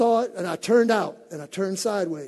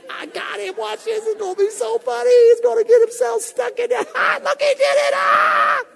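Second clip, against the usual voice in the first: high, loud, cackling mock glee; a hammed-up schemer laughing at her trap; wife as cartoon villain at the window; gloating wife; 9 dB louder than usual. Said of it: "looking through the window going".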